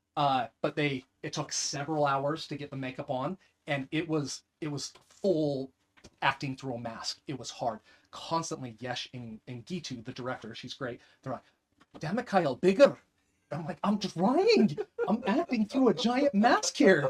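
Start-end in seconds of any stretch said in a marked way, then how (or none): 12.0-13.0 loud put-on Indian accent. Retelling what the director kept telling him while acting, in an Indian accent. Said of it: "I can't do the Indian accent without the wobble anymore".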